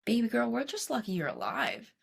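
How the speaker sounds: Russian-accented doctor, retold. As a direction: lightly put on a Russian accent. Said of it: "in her thick Russian accent".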